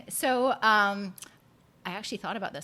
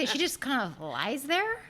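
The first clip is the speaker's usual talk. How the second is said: mock disbelief; 4 semitones higher, 3 dB quieter, slower than usual. Retelling disbelief at sleeping baby.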